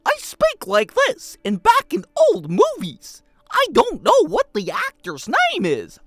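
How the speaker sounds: loud, high, slow theatrical showman; old-movie actor impression. Streamer imitating an unknown old movie actor, theatrical. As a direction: declaim grandly like an old film star. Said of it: "he talks kinda like this".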